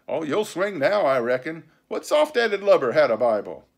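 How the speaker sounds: taunting pirate leader. A narrator's reading. Pirate captain telling the crew they'll swing, taunting. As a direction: needle the crew as a salty sea dog.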